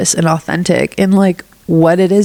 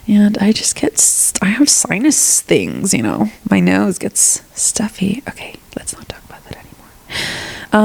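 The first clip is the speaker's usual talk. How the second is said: quiet aside; 4 dB quieter than usual. Real, not acted.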